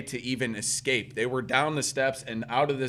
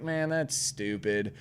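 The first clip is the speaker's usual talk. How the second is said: slow, softer retold shrug; unbothered; 2 semitones lower, 5 dB quieter, slower than usual. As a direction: imitate a guy who doesn't care. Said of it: "He doesn't really care".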